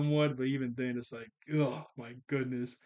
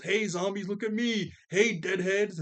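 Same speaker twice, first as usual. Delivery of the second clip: calling out; 6 semitones higher than usual. Retold or imitated. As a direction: yell to draw the zombies away. Org lures the zombies away.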